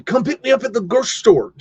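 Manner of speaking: high, loud mock phone yell; hurried yell. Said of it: "you would yell in".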